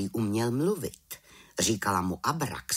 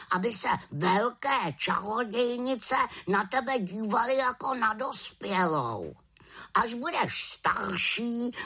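high soothing raven voice; comforting raven; 10 semitones higher than usual. A narrator's reading. Raven comforting the little witch, high soothing voice. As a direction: console her as the kind raven. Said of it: "pokoušel ... utěšit".

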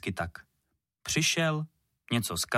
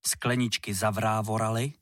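ordinary delivery

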